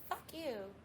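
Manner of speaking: a lightly voiced parrot swearing; mock parrot squawk. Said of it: "this stupid parrot would be like".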